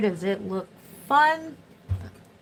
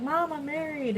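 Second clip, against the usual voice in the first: retold tearful daughter; 7 semitones higher, 3 dB quieter than usual. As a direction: imitate a daughter welling up. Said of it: "we all started crying together".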